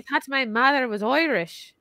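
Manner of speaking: playful put-on Irish brogue; mock Irish accent. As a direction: say it in hammed-up Irish. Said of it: "amazing accents".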